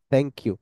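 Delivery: a quick th in "thank you"; th sound. Shown as a demonstration. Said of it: "English টিএইচ এর মতো".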